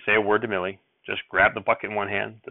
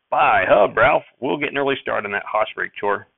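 lightly voiced cheerful uncle; called out; 4 dB louder than usual. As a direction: call out merrily to the boy. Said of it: "Uncle Levi called out".

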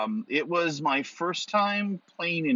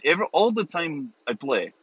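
Russian accent; 4 semitones higher than usual. Shown as a demonstration. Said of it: "talk with a Russian accent".

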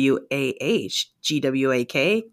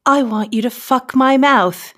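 seductive demand; 2 semitones higher than usual. Acted. Woman voices Emma's filthy request.

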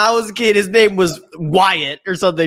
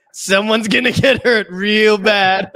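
menacing threat; 2 semitones higher, slower than usual. Retold or imitated. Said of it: "And he goes".

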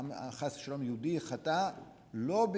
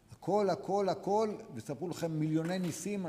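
emphatic preaching; 4 semitones higher, 4 dB louder than usual. Real, not acted. Preacher rising to a climax.

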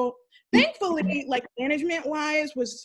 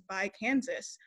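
softer, lower retold mutter; under his breath; 3 semitones lower, 6 dB quieter than usual. Coworker needling her as she leaves, under his breath. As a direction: toss off the farewell half under your breath. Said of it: "under his breath".

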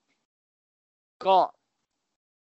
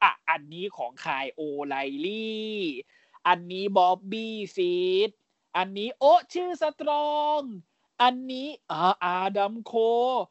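slow, drawn-out mock announcer reading each name; imitating Pat McAfee; much slower than usual. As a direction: mimic his stretched-out way of naming the weapons. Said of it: "มันทำเสียงอย่างนี้จริงๆ". (เลียนเสียงแพทอ่านชื่อแบบลากยาวช้าๆ)

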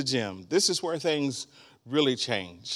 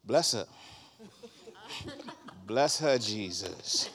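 quiet blessing; 6 dB quieter, slower than usual. Retold or imitated. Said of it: "I'd walk over to her and say".

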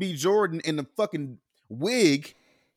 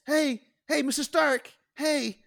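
put-on high boyish voice, much higher; squeaky young kid voice; mock a kid actor sounding young; Tom Holland impression; 9 semitones higher than usual. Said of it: "his voice sounds like this".

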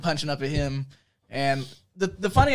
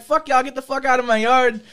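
mock yell, raised pitch; retold angry retort; 7 semitones higher, 4 dB louder than usual. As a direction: imitate someone ordering intruders off. Retold Kyler yelling back.

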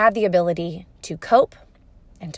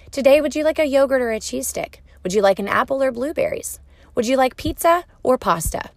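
put-on higher, lilting parent-to-toddler voice; parent offering choices; 5 semitones higher, 4 dB louder than usual. Shown as a demonstration. Parent giving a toddler lunch choices, higher and lilting. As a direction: pitch it up, offering a small child options.

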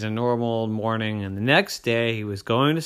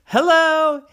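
very high, loud hello; high sing-song hello; chirpy sister; 13 dB louder than usual. A narrator's reading. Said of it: "his sister said".

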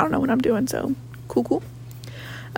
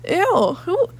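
disgusted; 8 semitones higher than usual. Retold or imitated. Disgusted at own voice.

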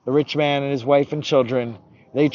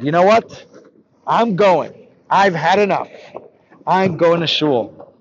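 higher, firm and fed up; defiant resolve; 4 semitones higher, 4 dB louder than usual. Acted. Left-behind boy deciding to go to shul, defiant. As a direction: make a stand, phrase by phrase.

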